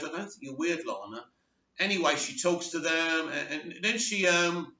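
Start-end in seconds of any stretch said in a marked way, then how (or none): 0.0-1.2 soft, tender retold reassurance; emotional. Teenage boy reassures the girl at the graveyard, softly emotional. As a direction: drop softer and lower, gently sincere. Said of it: "like, really emotional, goes".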